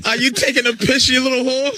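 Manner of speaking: put-on Aussie insult; lightly hammed Australian jock voice; a hint of an Aussie accent; mock Australian accent. Australian impression riff.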